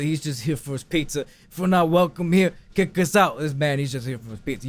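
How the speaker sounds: lightly voiced mobster vouching for someone; a hint of mobster, measured and insistent; mob boss role. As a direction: plead as an understated mob boss. Acts the mob boss pleading.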